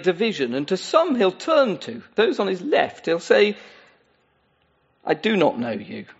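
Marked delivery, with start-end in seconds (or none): 5.0-6.1 solemn Jesus. Acted. Preacher voicing Jesus' judgement.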